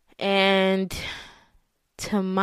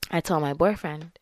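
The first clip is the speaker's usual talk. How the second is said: ordinary talk, nothing marked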